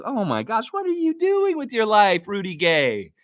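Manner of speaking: high, imitating a friend's despair; friend's mock exasperation. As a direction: voice her dismay. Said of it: "She's like".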